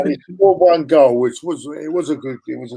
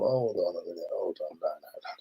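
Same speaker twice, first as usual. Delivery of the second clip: doubtful double take; 8 semitones lower, 15 dB quieter than usual. Retold or imitated. Inner thought on seeing YouTube clip.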